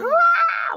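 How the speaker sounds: mock child's loud high wail; imitated crying-out wail. Mother imitating her sensitive daughter crying, loud high wail. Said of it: "she'll be like".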